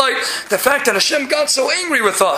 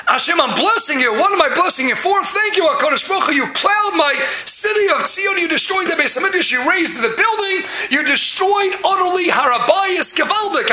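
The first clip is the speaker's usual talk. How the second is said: raised, higher-pitched address to Hashem; exultant mock thanksgiving; 3 semitones higher than usual. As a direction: proclaim the thanks with mounting fervor. Acted grateful prayer addressed to Hashem.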